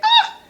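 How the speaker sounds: sudden high-pitched "ah"; short high exclamation. Acted. Mother overcome by her own softness, high mock cry. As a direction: let out a quick, high cry. Exclaims over being so soft.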